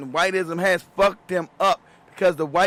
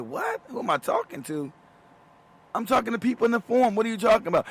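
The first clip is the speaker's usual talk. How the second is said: squeaky, baffled retort; mock disbelief; 5 semitones higher than usual. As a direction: act stunned. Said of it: "I'm like".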